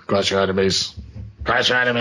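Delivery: a hint of Arnold's Austrian accent; lightly voiced Arnold; Arnold impression. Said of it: "I can't do his voice".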